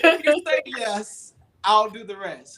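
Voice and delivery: sermon title. Shown as a demonstration. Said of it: "my next sermon title".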